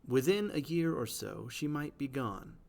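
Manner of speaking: "Within a year or so, she might be gone" with every second syllable stressed; iambic stress demo. Shown as a demonstration. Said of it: "That is an iambic line".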